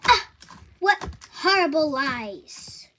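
drip fake dismay over it; sarcastic. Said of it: "I can hear the sarcasm in your voice".

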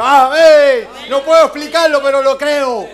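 rousing pulpit cry; fervent preaching. Real, not acted. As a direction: proclaim it with joy.

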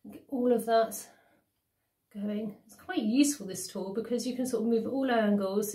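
face mask on while talking; speaking with mask on; talking through a sheet mask. Real, not acted. Seen 3: white sheet mask covers face, mouth open through cutout, all frames.

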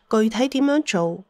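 usual speaking voice

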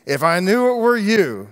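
laughing through the words; amused chuckle in the voice. Real, not acted. Laughing while preaching.

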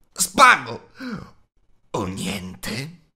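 Gollum screeches two guesses at once; shrieking. A narrator's reading. Gollum shrieking desperate guesses at Bilbo. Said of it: "strillò Gollum".

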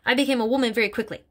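lightly voiced stern headmistress; a hint of a bullying headmistress, scornful; Trunchbull voice. Headmistress sneering about little girls to Miss Honey, scornful.

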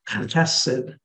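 "chesed" with a German ch in the throat, stress on the first syllable; Hebrew pronunciation. Shown as a demonstration. Teacher showing the congregation how to say "chesed" with a throaty ch. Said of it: "pronounce it as a German C H".

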